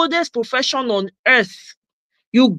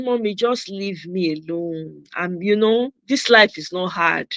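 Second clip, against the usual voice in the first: soft, slow pleading to mom; lightly mocking plea; whiny plea to mom; 4 semitones lower, 4 dB quieter than usual. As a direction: playfully beg mom to drop it. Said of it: "The way I said it to her".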